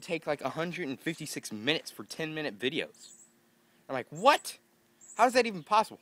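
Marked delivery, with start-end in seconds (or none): 4.1-6.0 high, loud disbelief; mock stunned high outburst; incredulous. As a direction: sound shocked at the upload time. Retold disbelief at upload time.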